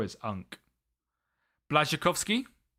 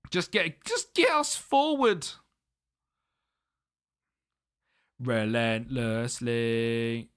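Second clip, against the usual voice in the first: urging; 3 semitones lower, much slower than usual. Real, not acted. Pleading with the team to attack.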